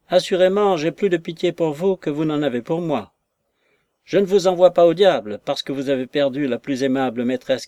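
mildly acted huffy retort; indignant reproach. Wounded maid scolding the lover, mildly indignant.

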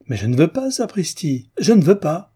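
building to a loud, high enraged shout; furious cry. A narrator's reading. Young woman refusing her nickname, shouting in rage. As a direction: stamp it out, rising in rage to the last pas. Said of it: "Elle cria, rageuse".

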